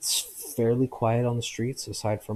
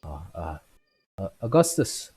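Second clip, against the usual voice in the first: put-on drunk man; 5 dB louder than usual. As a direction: blurt out a name. Drunk names himself.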